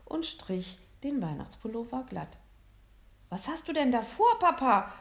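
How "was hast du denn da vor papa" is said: higher, louder astonished question; baffled. A narrator's reading. Son astonished that his father stands up, baffled. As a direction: sound completely taken aback. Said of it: "fragte William völlig verblüfft".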